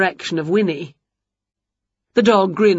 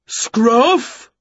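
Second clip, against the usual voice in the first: mild boom; 4 semitones higher, 3 dB louder than usual. A narrator's reading. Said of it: "boomed a big voice".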